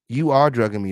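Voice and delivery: "You are drugging me" said evenly with weight on ARE; cited as statement. Shown as a demonstration. Host argues it is not a question, stress on ARE. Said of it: "is not a question".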